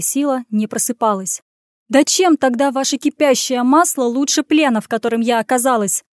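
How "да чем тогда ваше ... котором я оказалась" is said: shouting. Acted. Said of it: "закричала она".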